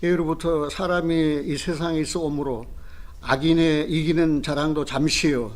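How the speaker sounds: solemn pulpit reading of Job; scripture reading. Acted. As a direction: read the verses like a pronouncement of judgment.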